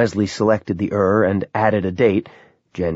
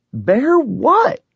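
high, urgent near shout; almost shout it, high; 4 dB louder than usual. A narrator's reading. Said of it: "Robbie nearly shouted".

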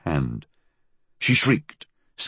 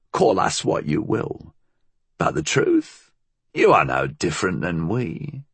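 put-on old crone voice; 4 semitones higher than usual. Old woman philosophises.

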